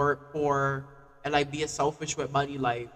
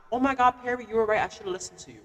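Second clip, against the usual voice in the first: mock admitting voice; 5 semitones higher, faster than usual. Mock quote of people admitting.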